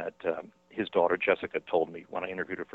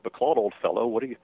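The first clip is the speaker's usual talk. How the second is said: higher, lightly voiced director, patronising; director Whale; 4 semitones higher than usual. Director Whale telling Rains he has no face, mildly mocking. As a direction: brush the actor off with mild amusement. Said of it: "Whale says".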